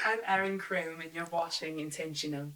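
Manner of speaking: a light, unprepared British accent attempt; put-on British accent, barely shifted from own voice. Shown as a demonstration. Cohost asks for the show's sign-off line, a mild British accent. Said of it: "you have to say it in a British accent".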